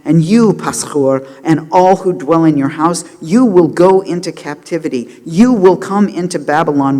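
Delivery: loud, emphatic prophetic denunciation, retold; measured but forceful mock outburst; retold angry rant. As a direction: pronounce doom on the priest, driving each clause. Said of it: "He continued his rant against the priests".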